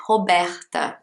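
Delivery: "Roberta" with throaty H-like Brazilian R sounds; strong Brazilian R. Shown as a demonstration. Teacher showing the Brazilian habit, "Roberta" with strong aspirated R. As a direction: say "Roberta" the Portuguese way, "Hobehta". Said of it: "have this strong R in the middle of the word".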